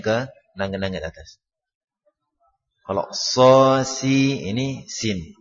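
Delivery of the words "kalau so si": so si with a heavy raised-tongue s; emphatic s. Shown as a demonstration. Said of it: "mengangkat lidah untuk huruf shad". (s tebal lidah terangkat)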